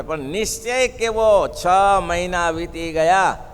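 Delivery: slow, loud, emphatic sermon voice; a preacher hammering home a point of faith; emphatic preaching. Acted. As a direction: drive each phrase home to the congregation. Preacher stresses devotee's firmness.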